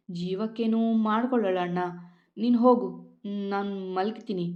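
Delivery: plain reading voice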